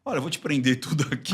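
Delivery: gently calm the suspect down; calm examiner. Retold or imitated. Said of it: "um cara que vai trazer calma pra pessoa". (examinador sereno, voz mais suave e tranquilizadora)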